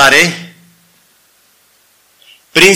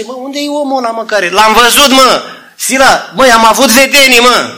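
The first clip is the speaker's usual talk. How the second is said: higher, eager storytelling voice; Paul telling Silas of his vision, higher; excited Paul; 5 semitones higher than usual. Retold or imitated. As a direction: push it with urgency. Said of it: "Și ăsta zice".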